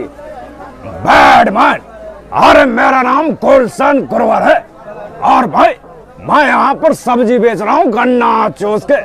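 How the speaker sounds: lightly voiced film villain; Bad Man, hawking vegetables; Gulshan Grover impression. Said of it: "आ जाते हैं गुलशन ग्रोवर जी".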